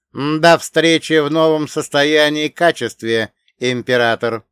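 solemn AI voice. Acted. AI signs off.

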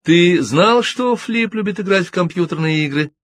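high, honeyed and ingratiating; butter him up with a sweet voice; sugary sweet. A narrator's reading. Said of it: "сказала она елейным голосом". (елейным, приторно сладким голосом)

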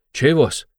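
high, drawn-out mock query; needling high-voiced question; teasing interrogator cutting in. A narrator's reading. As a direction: interrupt with playful disbelief. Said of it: "перебил Порфирий".

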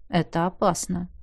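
softly, musing to himself; quiet, thoughtful. Acted. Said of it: "сказал он тихо, задумчиво".

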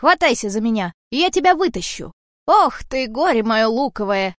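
loud, pressing rescue call; urgent shout. Acted. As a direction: haul her out, exasperated. Cat rescues Varya. (громкий взволнованный крик)

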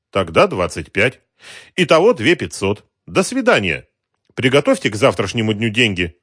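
polite racketeer. Acted. Racketeer smoothly threatens the shopkeeper, suave menace.

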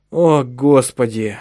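slow tired exhale of the words; the husband gives up the fight, slow and worn out; weary sigh. Acted. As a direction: let the fight drain out. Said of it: "устало вздохнул Микаэл".

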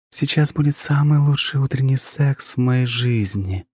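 slow, languid sultry line. Acted. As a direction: drawl it out languidly. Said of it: "Жанна сказала это так томно".

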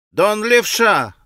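put-on boy's quick retort. A narrator's reading. Boy answering Alyosha's remark, boyish call.

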